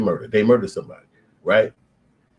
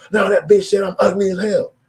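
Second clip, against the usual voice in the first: high, louder petulant excuse; defensive homie; 11 semitones higher, 6 dB louder than usual. Retold or imitated. Homie explaining why he slapped her, high petulant whine. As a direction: whine it like it's obvious.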